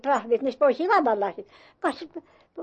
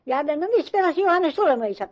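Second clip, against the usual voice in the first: mistress calling for Johannes; 4 semitones higher, 4 dB louder than usual. Retold or imitated. Mistress demands where Johannes is.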